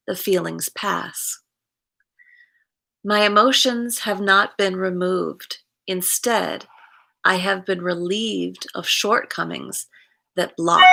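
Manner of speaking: measured daily-reading delivery; reading aloud. Acted. Host reading September fifth's reflection to viewers, read aloud. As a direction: read it out in phrases, leaning on key words.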